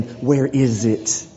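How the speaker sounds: a lightly voiced Lord, slow and low; the Lord asking his people, slow and grave. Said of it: "we have the Lord saying".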